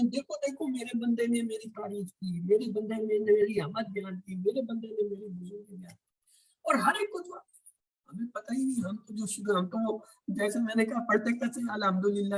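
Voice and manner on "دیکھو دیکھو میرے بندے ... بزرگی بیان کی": raised, delighted voice proclaiming praise; joyful proclamation. Retold or imitated. Teacher voicing God's joy at His servant: delighted. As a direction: announce it with delight, pitch lifted. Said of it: "اللہ ہی خوش ہو کے کہتے ہیں".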